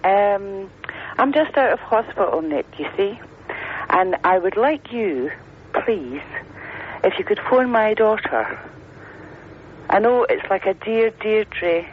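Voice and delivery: lightly put-on posh accent. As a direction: make a careful, posh-voiced request. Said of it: "I put my posh voice on now".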